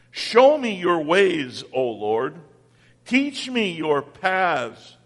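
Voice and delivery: slow, measured psalm recitation; scripture reading. Acted. Preacher reciting Psalm verses to his congregation, slow and prayerful.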